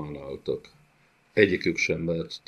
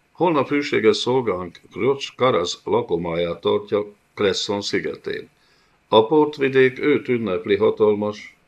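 higher, louder, anxious report; fearful servant creature; 4 semitones higher, 5 dB louder than usual. Acted. Servant gocsomul nervously reports to mighty Gajag. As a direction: grovel while reporting to the master.

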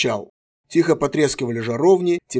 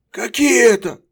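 wary; 8 semitones higher, 5 dB louder than usual. A narrator's reading. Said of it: "настороженно спросил пленник".

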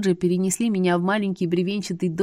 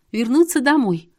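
higher, louder blurt; 6 semitones higher, 6 dB louder than usual. A narrator's reading. Heroine blurts her wish to go home, panicky blurt. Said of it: "выпалила".

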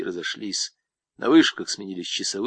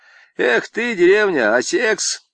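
lightly voiced swaggering con, pitched up; boastful convict; 11 semitones higher, 7 dB louder, slower than usual. Convict brags to Zamaraev about women, lightly voiced. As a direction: brag like a cocky camp inmate.

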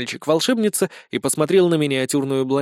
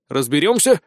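brief, assured reply; confident; 3 dB louder than usual. Acted. Sergeant waves away the doubts, confident. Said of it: "уверенно ответил Сисюля".

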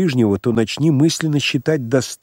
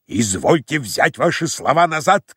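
крик; 3 semitones higher than usual. Acted. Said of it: "крикнул Самойленко".

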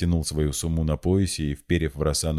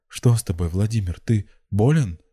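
higher-pitched tender concern; cooing; 5 semitones higher, 4 dB louder than usual. A narrator's reading. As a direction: coo anxiously to a loved one. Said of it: "она приблизилась к нему и проворковала".

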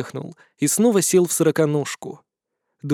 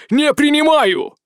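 slow, raised, emphatic no; higher, louder insistent refusal; 11 semitones higher, 4 dB louder, slower than usual. Acted. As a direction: refuse harder, voice climbing. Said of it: "воскликнул Яз". (настойчивый, повышенный отказ)

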